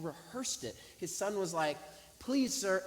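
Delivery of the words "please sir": high, imitated tearful plea; almost crying. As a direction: mimic a boy begging, near tears. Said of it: "almost crying".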